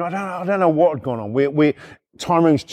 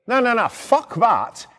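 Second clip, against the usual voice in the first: higher, slow retold protest; 7 semitones higher than usual. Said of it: "I'm like going".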